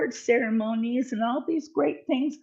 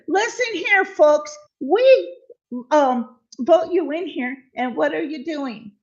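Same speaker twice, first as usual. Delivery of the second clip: higher, louder mock lecture; laying down the law; 4 semitones higher, 3 dB louder than usual. Retelling man scolding corrupt city council, raised mock lecture. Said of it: "he laid down the law and he said".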